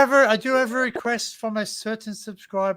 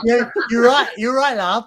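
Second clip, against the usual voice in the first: mock Scouse accent; 3 semitones higher, 7 dB louder than usual. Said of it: "a person over the Mersey".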